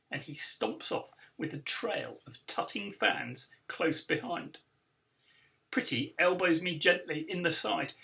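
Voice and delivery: lively read-aloud storytelling; story narration. A narrator's reading. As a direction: read it like a children's book for a crowd. Author reads book aloud.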